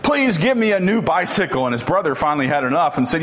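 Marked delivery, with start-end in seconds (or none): 0.0-1.7 high imitation of a boy hollering his prayer; mock top-of-lungs yell. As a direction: raise the pitch as if yelling to be heard. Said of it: "at the very top of his lungs".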